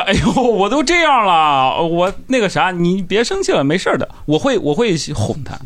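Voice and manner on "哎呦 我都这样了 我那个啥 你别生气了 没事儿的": put-on coaxing girlfriend. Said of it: "我肯定会说".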